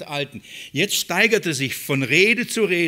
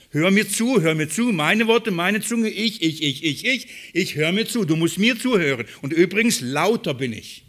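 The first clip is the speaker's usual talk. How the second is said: lampoon a braggart who demands to be heard; mocking boastful Elihu; 2 semitones higher than usual. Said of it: "seht ihr den Anspruch?".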